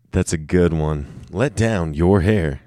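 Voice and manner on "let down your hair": slow tryout. Shown as a demonstration. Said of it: "trying out a sound drop".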